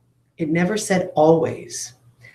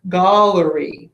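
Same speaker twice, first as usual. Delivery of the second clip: put-on much higher, childlike protest; confused third graders; 9 semitones higher than usual. Teacher voicing her third graders' complaint, high and childlike. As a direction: play a puzzled kid insisting on the rule. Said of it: "third graders have all been concerned".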